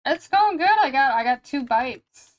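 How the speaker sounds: excited update. Real, not acted. Happy update on new commissions.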